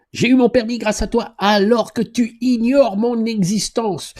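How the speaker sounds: a hammed-up poetry reading of a fan's message; poetic recital. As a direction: savour it like reading a poem aloud. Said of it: "toi t'es un poète".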